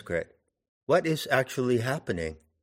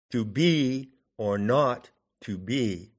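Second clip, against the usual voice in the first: "To be or not to be", slow, leaning on the second syllable of each pair; slow scanning with BE and NOT stressed; iambic stress; slower than usual. Shown as a demonstration. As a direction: beat out "To be or not to be" as iambs, stressing be and not. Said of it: "with the emphasis on the second".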